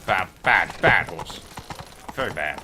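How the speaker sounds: scolding. Real, not acted. Scolding horse.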